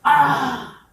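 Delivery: high, pained cry of agony; dying man's cry; anguished cry. Retold or imitated. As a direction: let out a sharp cry of pain. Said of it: "그가 부릴 것은요, 외침입니다".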